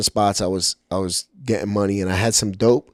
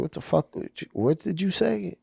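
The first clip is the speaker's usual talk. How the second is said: offended outburst; 11 semitones higher than usual. Retold or imitated. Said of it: "I was so offended".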